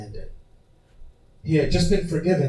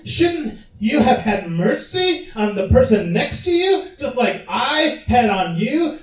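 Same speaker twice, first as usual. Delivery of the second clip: the king scolding a wicked servant, voice raised high; angry king; 4 semitones higher than usual. Acted. King rebukes servant, high and forceful. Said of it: "he said".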